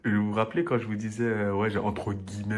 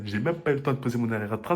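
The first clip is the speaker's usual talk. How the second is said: faster retelling; 3 semitones higher, faster than usual. Retold or imitated. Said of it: "Je vous ai dit, hein".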